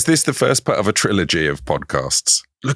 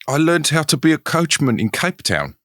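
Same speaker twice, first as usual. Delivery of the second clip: high-pitched, hammed-up South African; comic Cape Town accent; mock South African accent; 8 semitones higher than usual. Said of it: "it's gone South African so quickly".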